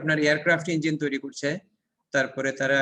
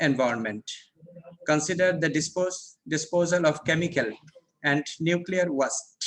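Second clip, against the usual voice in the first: slow textbook reading; much slower than usual. Acted. Reads textbook passage aloud.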